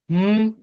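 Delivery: "Mou" held long on a high tone. Shown as a demonstration. Teacher giving an example of the ton haut, high tone. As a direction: say "Mou" drawn out, pitched high and level. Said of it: "c'est ça le ton haut".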